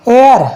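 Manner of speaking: "एयर" with no h sound at the start; silent H. Shown as a demonstration. Teacher models the word for the class, "एयर" with silent H. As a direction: say "एयर" starting straight on the vowel. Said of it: "क्या बोलते हैं इसे".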